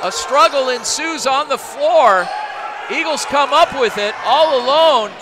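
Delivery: energetic live basketball call; play-by-play. Acted. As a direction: call the action as it happens.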